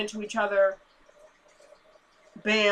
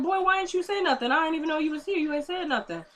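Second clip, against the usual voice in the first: Natalie voice; 7 semitones higher, 4 dB quieter than usual. Retold or imitated. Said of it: "She's like".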